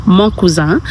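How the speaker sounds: "mon cousin" as "mon koo-zah"; "mon cousin" with the n of "cousin" left silent; French pronunciation. Shown as a demonstration. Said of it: "if it's a male you're talking about".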